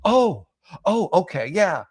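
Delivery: a high, loud, hammed-up "oh" of sudden understanding; the therapist suddenly caves in, mocking; mock sudden realization.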